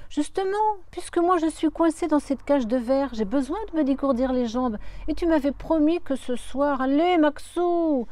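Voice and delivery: put-on high, loud teenage pleading; imploring. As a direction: beg him in a high voice. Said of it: "implore l'adolescente". (supplication aiguë et forte d'adolescente)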